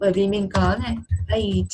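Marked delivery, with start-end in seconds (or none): 1.3-1.7 eight drawn out to its end sound; eight with final consonant. Shown as a demonstration. Teacher showing a pupil the ending, eight with its final sound. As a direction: make the last t of eight heard. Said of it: "âm cuối".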